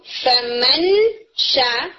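فمن slow before شا; ikhfa demo. Shown as a demonstration. Teacher introducing the shin example, slow. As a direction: draw out the nasal of فمن into شا. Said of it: "تو آپ اسے کیسے پڑھیں گے".

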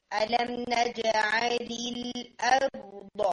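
very slow الارض, each letter drawn out; careful recitation. Shown as a demonstration. Teacher slowly modelling a firm hamza. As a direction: stretch out الم نجعل الارض. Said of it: "آپ کا حمزہ ہے تو آپ نے اس کو تھوڑا سا اسٹرانگ".

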